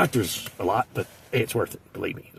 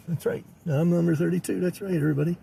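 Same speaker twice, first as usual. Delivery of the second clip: higher, softer boast, lightly imitated; smug waiting customer; 4 semitones higher, 3 dB quieter than usual. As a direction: quietly announce yourself as next in line. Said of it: "he's like, uh".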